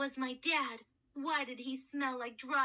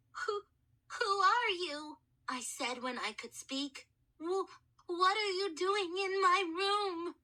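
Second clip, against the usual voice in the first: frightened stammer; 5 semitones higher than usual. Acted. Boy frightened by mummy.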